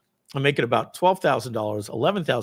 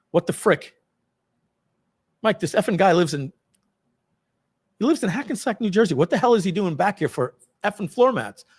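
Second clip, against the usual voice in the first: irate boss; 6 semitones higher than usual. Retold or imitated. Boss ranting at Mike over floor mats, angry and high. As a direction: blow up at the absurd repeat visit.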